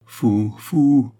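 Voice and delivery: distressed cry, swelling on the repeat; anguished. A narrator's reading. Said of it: "répéta-t-elle avec une inexprimable angoisse". (avec une angoisse inexprimable)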